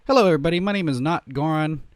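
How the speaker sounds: high, loud showy announcer; hammed-up channel intro greeting; intro host voice. Shown as a demonstration. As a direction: sell the intro with big energy.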